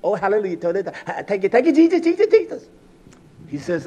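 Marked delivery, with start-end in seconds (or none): 0.0-2.7 lightly imitated gushing church praise; mock praise worship. Preacher mimicking what we think prayer is, mock praise. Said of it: "we think it's".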